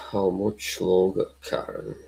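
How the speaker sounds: put-on Irish accent. Asking Karen how much longer, mock Irish accent. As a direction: try the Irish lilt, sinking away. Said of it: "spoke with the Irish accent".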